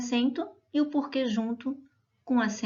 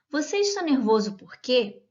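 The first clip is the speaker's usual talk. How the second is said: asked as a direct question, stress on "por quê"; 3 semitones higher, 3 dB louder than usual. Shown as a demonstration. Teacher reading a direct question example, asking tone. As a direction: read it as a real question ending on "por quê". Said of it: "Em tom de pergunta".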